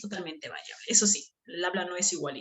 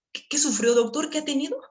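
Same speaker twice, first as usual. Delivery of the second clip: confused mother; 7 semitones higher, 3 dB louder than usual. Retold or imitated. Confused mother asks doctor.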